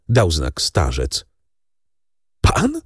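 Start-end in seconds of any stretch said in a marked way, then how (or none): 2.4-2.8 very high, shocked cry; the name hits him like a blow; horrified disbelief. A narrator's reading. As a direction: Franz staring at Noirtier in horror. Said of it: "zawołał Franz i włosy powstały mu na głowie".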